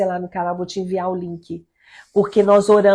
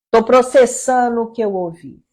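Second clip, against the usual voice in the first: higher, louder mock reply to a husband; re-enacted self-restraint; 4 semitones higher, 5 dB louder than usual. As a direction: act out holding back a reaction, pitched up. (resposta encenada de quem se segura)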